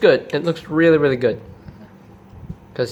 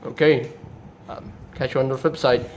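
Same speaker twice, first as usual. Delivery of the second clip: Jetfire; 5 dB quieter than usual. Acted. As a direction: take an awkward, quiet leave. Jetfire takes his leave.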